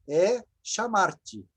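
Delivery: 1 slow. Shown as a demonstration.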